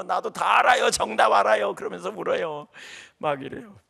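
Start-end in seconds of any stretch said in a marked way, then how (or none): 0.0-1.7 imitating crying retort. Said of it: "막 울면서".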